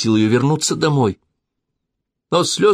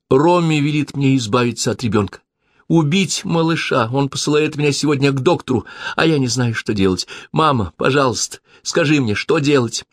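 high, urgent and tearful; begging for help; desperate pleading; 7 semitones higher than usual. A narrator's reading. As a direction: daughter begging mother what to do, desperate. Desperate daughter begs advice.

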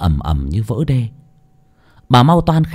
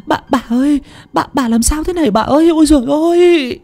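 rising higher, panicky stammer; stammering in fright; 12 semitones higher, faster than usual. A narrator's reading. Maid finds her mistress collapsed, stammering in fright. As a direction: stumble over the words in shock. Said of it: "miệng lắp bắp".

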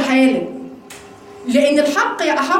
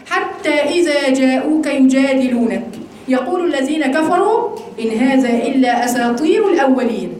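measured, drawn-out scripture reading; verse recitation; slower than usual. Acted. Teacher reciting the disbelievers' verse, measured recitation. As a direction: recite the verse with long, careful syllables.

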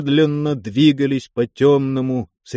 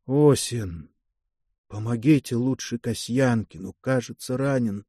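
softer, dazed near-whisper; weak half-whisper; 6 dB quieter than usual. Acted. Stunned commissar asks Osin to help the driver, half-whispered. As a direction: barely voice it, stunned after the crash. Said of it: "проговорил шёпотом Веснин".

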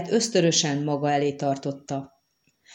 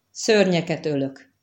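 wondering, hesitant. Acted. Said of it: "a hangjában egyszer csak, mintha valami csodálkozásféle".

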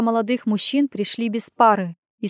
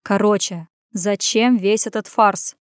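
hissing. Acted. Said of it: "зашипел".

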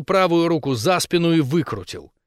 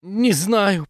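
babbled; 6 semitones higher than usual. Acted. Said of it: "пролепетала Крисси".

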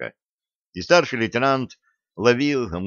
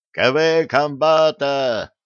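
high, loud, drawn-out cry; wild yell; 5 semitones higher, 5 dB louder, much slower than usual. A narrator's reading. Lookout yells from the forest edge, wild cry. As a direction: holler the alarm across a distance. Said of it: "раздался дикий вопль с кромки леса".

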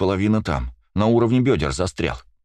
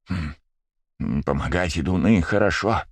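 purring contentedly; slower than usual. Acted. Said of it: "довольно промурчал зверолюд".

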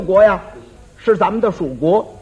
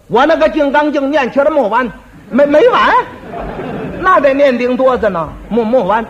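boastful; 4 semitones higher than usual. Acted. Drunk braggart boasts endless sutra.

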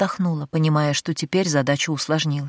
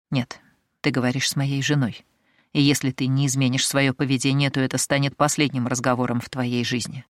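cold threat; 3 semitones lower than usual. Acted. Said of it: "Голос халифа был холодным".

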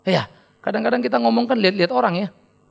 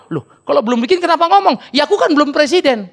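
raised quarrelling voices; acted quarrel; 5 semitones higher, 4 dB louder than usual. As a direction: argue back and forth. Acted argument.

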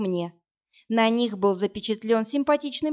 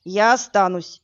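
stubborn; 5 dB louder than usual. Acted. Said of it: "упрямо перебил меня Влад".

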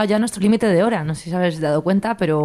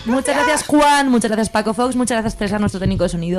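upbeat thanks; 4 semitones higher than usual. Real, not acted. Signing off, thanking crew.

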